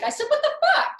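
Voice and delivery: laughing yell. Retold or imitated. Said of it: "And I'm like".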